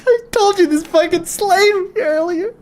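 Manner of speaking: high voice squeezed by laughing; helpless laughter. Real, not acted. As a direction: talk through a real laughing fit. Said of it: "I just lost it".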